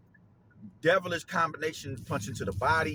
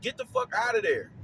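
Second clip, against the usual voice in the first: higher, louder, yelling at the fighter; frustrated yelling; 10 semitones higher, 4 dB louder than usual. Retold or imitated. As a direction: shout at him to get out. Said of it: "'Cause I'm like".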